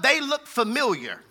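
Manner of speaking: "familiar" set out as the key word; stress on familiar. Shown as a demonstration. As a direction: put the emphasis on "familiar". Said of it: "Emphasis on familiar".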